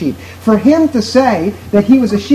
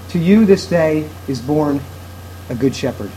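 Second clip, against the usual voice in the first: a soft, lower, hushed announcement; softly, tenderly; 5 semitones lower, 6 dB quieter than usual. Shown as a demonstration. Preacher voices the angels' words to a sheep, softly and tenderly. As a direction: let it land gently, like good news whispered close. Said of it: "They sound like this".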